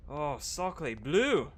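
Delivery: high, hammed-up French accent wailing; French chef. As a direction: wail in a comic French accent. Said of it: "talking in different accents".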